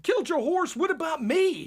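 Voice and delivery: high, incredulous comeback; indignant protest. Retold or imitated. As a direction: protest like the wronged party. Acted indignant reply to the guide.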